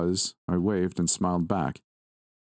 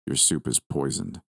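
cool Lucifer; 3 semitones lower than usual. Acted. Lucifer states it coolly.

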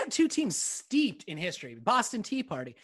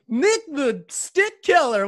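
fighting game announcer; 2 semitones higher, much slower than usual. Acted. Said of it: "you didn't give me a nickname".

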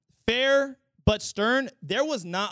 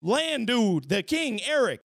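louder, sassy crab voice; Sebastian voice; 3 dB louder than usual. Retold or imitated. Crab tells the king about her crush, sassy and loud. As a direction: gossip it like the crab. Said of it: "Sebastian's like".

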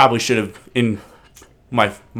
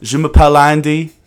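slow, halting schoolbook French, English accent; 4 dB louder, slower than usual. Shown as a demonstration. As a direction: plod through it like a nervous English tourist. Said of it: "here's an English person doing French".

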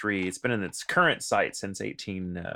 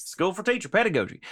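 mock Texas accent; 8 semitones higher than usual. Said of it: "Try saying that in a Texas accent".

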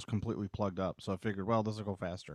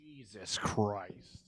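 slow drawn-out curse, quieter, fading past; passing by doppler; 7 dB quieter, much slower than usual. Shown as a demonstration. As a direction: fade it in and out like a passing car. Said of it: "The Doppler effect".

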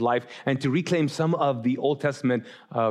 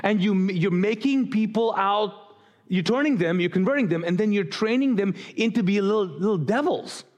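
mildly heated retelling, pitch a bit higher; fired up; 4 semitones higher than usual. Retold or imitated. Preacher paraphrasing Jesus scolding hypocrites, mildly fired up. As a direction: lay out the accusation with animated insistence. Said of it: "he's fired up. He's like".

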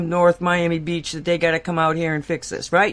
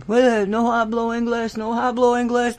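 mock Spanish-speaking worker; 5 semitones higher than usual. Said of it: "I speak English".

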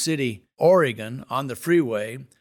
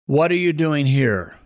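raised-voice mock yell; half-hearted scream, louder but controlled; retold scream; 2 semitones higher, 5 dB louder than usual. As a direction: call it out loudly, imitating a screaming man. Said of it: "And screaming, he says".

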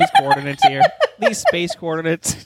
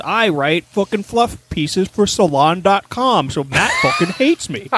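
mocking Tyler Zucker. Host mocking a journalist listener, in a lightly smug mock voice. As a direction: brag like a self-satisfied Rutgers journalist, half-hearted. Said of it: "Tyler Zucker is a sucker".

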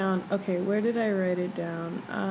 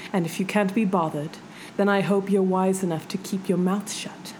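menacing reading. Acted. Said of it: "Do you want me to read it with an accent?".

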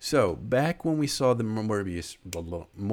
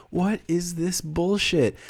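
mock outrage; 9 semitones higher, 3 dB louder, slower than usual. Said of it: "I was like".

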